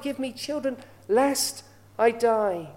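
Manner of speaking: slow, drawn-out longing plea, lest I die stretched. Retold or imitated. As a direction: beg for a child, slowly and heavy. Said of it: "she just had that longing for a child".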